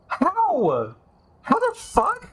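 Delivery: high frantic baffled questions; rattled and disbelieving, pitch way up; panicking gamer. Real, not acted. Panicking over the Revenant.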